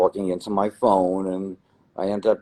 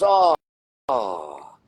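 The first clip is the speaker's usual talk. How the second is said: mock excited stranger; 5 semitones higher, 4 dB louder than usual. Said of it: "He goes".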